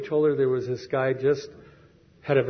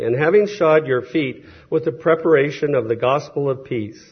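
scripture reading; 3 dB louder than usual. Shown as a demonstration. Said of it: "Going on to Ephesians six fifteen".

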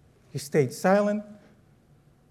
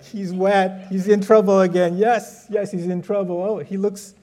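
higher, taunting sing-song; mocking laugh; 5 semitones higher, 3 dB louder than usual. Brother Brian taunting the wet kid, higher and gloating. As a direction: gloat like a teasing big brother. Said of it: "he's, like, laughing at me".

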